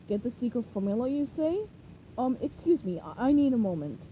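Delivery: lightly voiced scheming Plankton; a hint of sly villain; mild scheming plankton.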